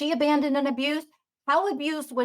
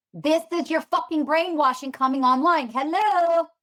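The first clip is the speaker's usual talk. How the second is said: sarcastic wake-up call; 5 semitones higher, 3 dB louder than usual. Real, not acted. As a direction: call them out, pitch climbing. Calling out triggered listeners.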